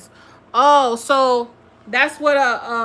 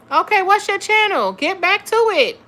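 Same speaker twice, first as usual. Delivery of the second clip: excited; 8 semitones higher, 5 dB louder than usual. Real, not acted. Urging the guest loudly.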